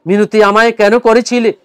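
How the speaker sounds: আবৃত্তি; poem recitation. Acted. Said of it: "আমি আপনাদেরকে পড়ে শোনাচ্ছি".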